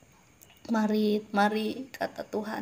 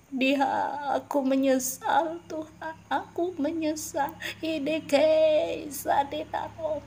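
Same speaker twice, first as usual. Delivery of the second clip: higher, anguished begging to the Lord; acted wail of a sinner asking mercy; remorseful plea; 5 semitones higher than usual. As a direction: cry out in regret as a lost soul. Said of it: "akan ada perkataan".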